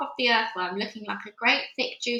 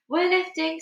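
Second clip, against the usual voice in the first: shouted; 7 semitones higher than usual. A narrator's reading. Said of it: "somebody shouted".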